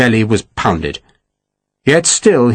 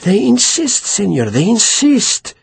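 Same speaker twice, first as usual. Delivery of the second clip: much higher, begging; frightened official pleads with the merchant; pleading; 9 semitones higher than usual. Acted. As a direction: plead for mercy, voice up high. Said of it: "Perez was pleading now".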